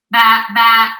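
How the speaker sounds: lightly voiced sheep baa, low and even; sheep bleat. Shown as a demonstration. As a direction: imitate a sheep for a small child. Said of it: "What does a sheep say".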